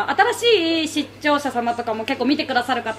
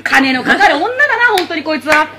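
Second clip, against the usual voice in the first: laughing mock grumble; 5 dB louder than usual. Mock gruff complaint, laughing.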